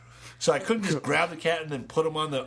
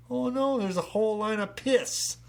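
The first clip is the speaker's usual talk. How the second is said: much higher, dismayed discovery; high-pitched retold horror; mock shock; 10 semitones higher than usual. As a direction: act out finding the mess. Discovering the dog's mess.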